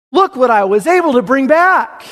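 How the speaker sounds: joyful servant showing the master his gain; overwhelmed servant. Acted. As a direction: show off the return with glee. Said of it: "He's overwhelmed".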